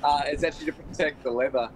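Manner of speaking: talking through a burning mouth; words pushed out past hot cheese; mouth burning from spicy food. Real, not acted. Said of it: "my mouth is burning here".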